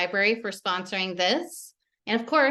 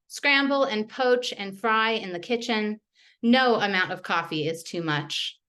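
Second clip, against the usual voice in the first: measured, even poem reading; poetry reading. Acted. Poet reading her poems to the audience, measured. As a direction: let each image land with a small pause.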